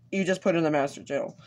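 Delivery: talking with the hiccups; speech broken by hiccups. Real, not acted. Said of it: "I got the hiccups".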